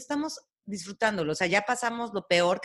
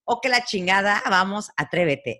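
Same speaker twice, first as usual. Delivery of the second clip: mantra; 5 dB louder than usual. Shown as a demonstration. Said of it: "Hay un mantra que es".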